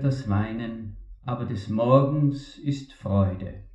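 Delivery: measured, solemn reading of a psalm; solemn scripture reading. Acted. Preacher reads the psalm aloud to the congregation, solemn and measured.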